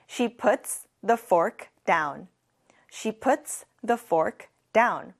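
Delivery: "I put my bag down" said word by word; very slow model. Shown as a demonstration. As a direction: model the sentence slowly for repeating. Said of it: "같이 해볼게요". (따라 하도록 아주 천천히)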